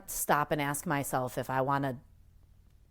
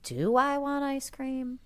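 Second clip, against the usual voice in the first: higher, pondering "Do I want ice cream?"; questioning self-check; 9 semitones higher than usual. Shown as a demonstration. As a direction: pause and question the craving. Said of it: "stop and examine that".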